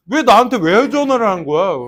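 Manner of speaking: exasperated. Real, not acted. Teacher baffled about why the student called her, exasperated. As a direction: throw up your hands in disbelief.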